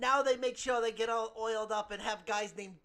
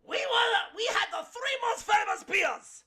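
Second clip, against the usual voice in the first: loud, higher mock-German protest; indignant shout; 9 semitones higher, 5 dB louder than usual. Mock German boasting loudly about famous beers. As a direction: shout it with wounded pride.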